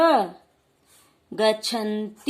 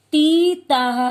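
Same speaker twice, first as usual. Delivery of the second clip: loud recitation; 4 semitones higher, 6 dB louder, much slower than usual. Shown as a demonstration. Teacher leads the class to repeat the suffixes loudly. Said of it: "जोर जोर से बोलेंगे".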